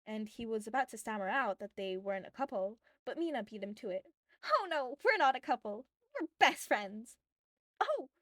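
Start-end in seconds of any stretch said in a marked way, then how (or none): 4.4-7.2 lightly voiced girl, quick denial; a young girl brushing it off; flustered girl voice. A narrator's reading. Mina protesting. 7.8-8.1 sudden high "Oh!"; a quick startled gasp of surprise; surprised exclamation. A narrator's reading. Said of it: "exclaimed the bartender".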